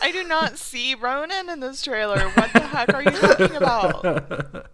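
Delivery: loud baffled, slowed disbelief; laughing confusion, slowed down. Retold or imitated. Confused retold reaction.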